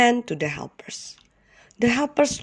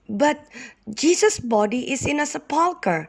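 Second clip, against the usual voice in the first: sadly; 7 semitones higher than usual. Acted. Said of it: "said another woman sadly".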